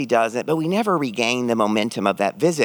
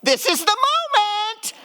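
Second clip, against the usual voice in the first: a much higher, eager cry; excited; slower than usual. Real, not acted. Speaker sure reconciliation has come, high and excited. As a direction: burst out with hope. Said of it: "hoping for the reconciliation".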